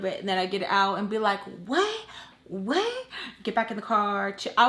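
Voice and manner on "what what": very high rising question; squeaky-high incredulous challenge; challenging. Retold or imitated. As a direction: pop out with a high, confrontational question. Jumps out to challenge neighbors.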